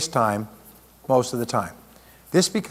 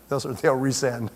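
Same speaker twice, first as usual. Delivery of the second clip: slowed, chuckling through it; laughing; slower than usual. Real, not acted. Speaker repeating the joke about resent emails, laughing. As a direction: laugh it out slowly.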